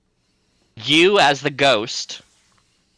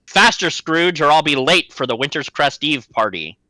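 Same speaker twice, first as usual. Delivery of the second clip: put-on higher, louder impatient old man; impatient boss; 4 semitones higher, 3 dB louder than usual. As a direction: hurry the worker along. Old boss hurrying Scrooge.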